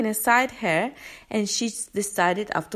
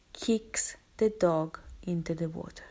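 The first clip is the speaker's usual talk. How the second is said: whispered, softer; hushed telling; 3 semitones lower, 5 dB quieter than usual. Real, not acted. Telling viewers of the kick, in a hushed whisper. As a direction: drop to a shocked whisper. Shocking moment told hushed.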